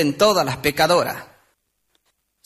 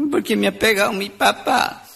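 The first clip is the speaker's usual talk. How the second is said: mock-crying old man; lightly acted tearful elder. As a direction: whimper it like an upset little grandpa. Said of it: "Otro viejito estaba llorando".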